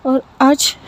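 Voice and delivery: pleading with the aunt, stunned and hurt; upset, close to tears. Acted. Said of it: "थोड़ी सी emotional हो जाती है और थोड़ी सी रोने".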